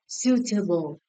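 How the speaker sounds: "Suitable" with the opening syllable stressed; stress on first syllable. Shown as a demonstration. Teacher checking stress answers with class, first-syllable stress on "Suitable". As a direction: lean on the "Suit" of "Suitable". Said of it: "The first syllable as well".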